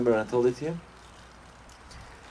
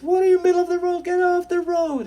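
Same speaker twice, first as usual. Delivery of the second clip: fast, much higher angry shout; angry yell; 6 dB louder than usual. Acted. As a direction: bark him off the road. Driver yells at Herschel.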